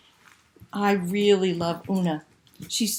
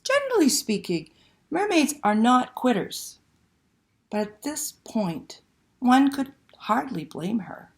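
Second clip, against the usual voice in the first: put-on lively read-aloud to children; storyteller voice for kids; story narration. A narrator's reading. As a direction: tell it like a bedtime picture book, full of suspense. Reads picture book aloud.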